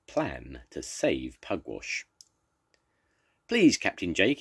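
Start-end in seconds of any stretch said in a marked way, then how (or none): 3.5-4.4 calling out. Acted. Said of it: "he called".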